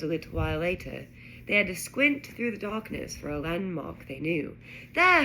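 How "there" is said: sudden loud call; shout. A narrator's reading. Harry spots the landmark from the flying car, shouting. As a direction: shout out a sighting. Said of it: "Harry shouted".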